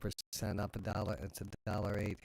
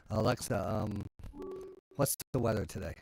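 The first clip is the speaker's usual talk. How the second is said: talking to voice assistant; 5 dB louder than usual. Real, not acted. Asking Alexa the weather.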